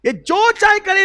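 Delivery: the Prophet pleading for Abdullah, high and impassioned; high impassioned cry. Acted. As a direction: lift the line up high with emotion. Prophet defends Abdullah, repeated line.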